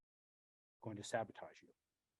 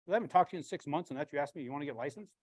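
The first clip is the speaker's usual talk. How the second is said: sister's surprise; 3 semitones higher, 7 dB louder, faster than usual. Retold or imitated.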